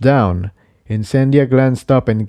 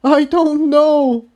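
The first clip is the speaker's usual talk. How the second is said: much higher, slow and strained; higher-voiced colt, fed up; Jigsaw, frustrated; slower than usual. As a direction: drag it out in frustration.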